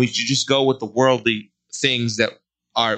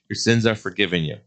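lower, gentle storytelling voice; hushed retelling; 3 semitones lower than usual. Acted. Preacher retells Peter and Jesus.

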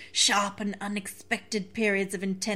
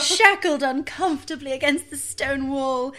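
prim voice. Acted. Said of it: "the most prim voice possible".

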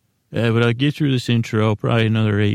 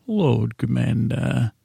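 Stannis impression; slower than usual. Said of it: "two words of Stannis".

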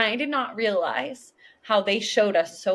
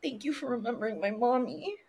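put-on creepy child voice; 4 semitones higher, 6 dB quieter than usual. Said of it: "Zach's like".

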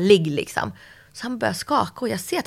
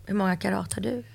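conspiratorial whisper; hushed nosy whisper; 7 dB quieter than usual. Real, not acted. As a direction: whisper the cheeky question. Nosy joking question about carats.

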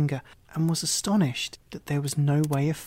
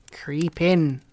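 louder curt witch command; louder old witch command; witch ordering; 5 dB louder than usual. Acted. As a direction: order her into the oven. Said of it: "said the witch".

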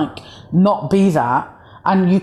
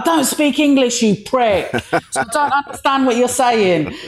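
higher-pitched mock retort; retold defiant comeback; 5 semitones higher than usual. Comedian retelling a comeback to a man who swore, mock defiance. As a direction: throw the insult back, voice lifted. Acted comeback to swearing bar heckler.

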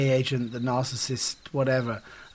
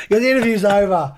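loud, higher mock outburst; raised-voice imitation of storming off; irritated walk-out; 5 semitones higher, 5 dB louder than usual. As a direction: imitate a star angrily ending it. Mimicking Crowe storming out of interview.

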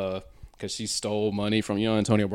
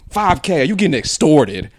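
put-on girl voice; 8 semitones higher, 12 dB louder than usual. Girl voice in retold exchange.

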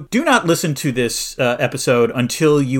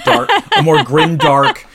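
laughing while talking; 6 dB louder, slower than usual. Real, not acted. Joking about a gritty reboot.

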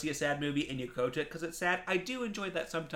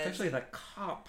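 hushed whisper; 3 semitones higher, 5 dB quieter than usual. Real, not acted. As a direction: breathe it out softly. Hushed sad memory.

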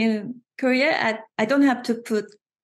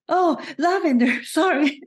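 apologetic self; 8 semitones higher, 3 dB louder than usual. Retold or imitated.

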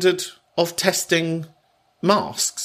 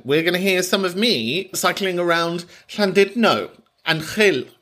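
higher-pitched, put-on Wenglish accent; 4 semitones higher than usual. Shown as a demonstration. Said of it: "that was my Wenglish accent".

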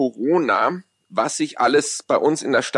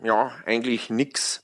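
Polt sketch voice; 5 semitones lower, 6 dB quieter than usual. Retold or imitated. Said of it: "dieses Gerhard Polt-Stück".

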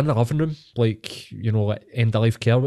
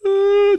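retold start of crying; 6 dB louder than usual. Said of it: "just start to greet".

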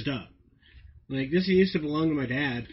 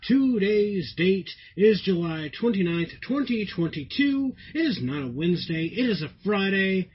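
show announcer intro; 3 semitones higher than usual. Acted. Host opening the podcast for listeners, announcer style. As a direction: announce it big like a ringmaster.

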